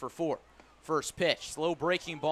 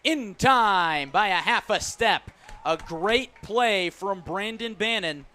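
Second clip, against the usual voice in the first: excited call; 6 dB louder than usual. Real, not acted. Close play at first base.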